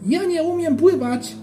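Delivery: very high, outraged cry; indignant shout. A narrator's reading. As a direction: shriek it back, stung and offended. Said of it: "krzyknął Rufus".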